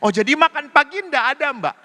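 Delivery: mock bewildered guest; puzzled question. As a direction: sound confused by the answer. Pastor retells puzzled breakfast exchange.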